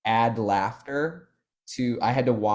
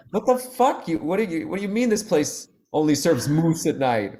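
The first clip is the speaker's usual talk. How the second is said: mock city-folk outrage; 10 semitones higher, 5 dB louder than usual. Big city folk in small town.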